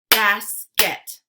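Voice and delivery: Basket as loud "bas... ket"; split into syllables. Shown as a demonstration. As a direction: punch out both halves of Basket separately. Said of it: "give you two parts to a word".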